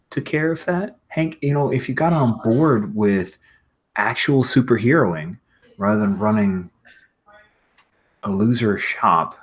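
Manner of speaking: mildly snooty put-down; condescending. Acted. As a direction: talk down to him, rising at the end. Shaker belittles Hank's shop.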